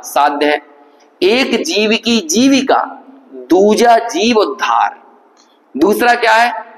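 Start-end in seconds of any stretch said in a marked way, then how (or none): 1.2-5.0 slow, deliberate couplet line; reciting a verse. Shown as a demonstration. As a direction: lay each word down slowly. (धीमे स्वर में दोहे की पंक्ति)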